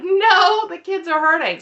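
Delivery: sudden high, loud pleading no. Retold or imitated. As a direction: cut in high and loud, insisting. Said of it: "And Robin's like".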